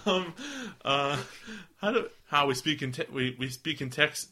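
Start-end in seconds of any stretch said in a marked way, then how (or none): 1.8-4.3 slipping into an Irish lilt; Irish accent. Pretend. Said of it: "I'm just going into Irish".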